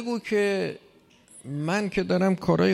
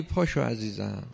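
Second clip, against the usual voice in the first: gentle wake-up call; 5 semitones lower, 3 dB quieter than usual. Retold or imitated. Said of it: "اگر آرام انذارش کنی".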